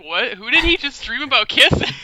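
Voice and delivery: baffled, rising disbelief; confused surprise. Retold or imitated. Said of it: "I was like".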